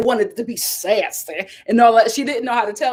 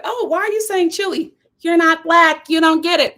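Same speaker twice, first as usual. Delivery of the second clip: higher, mock-scolding friend; mock incredulous; 6 semitones higher than usual. Friend scolding her for saying chili. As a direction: tease like a puzzled friend. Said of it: "some people are just like".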